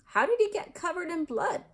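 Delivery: put-on a boy's eager question about the ghost's blood; with great interest. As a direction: lean in, keen to hear the gory bit. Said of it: "asked Seamus with great interest".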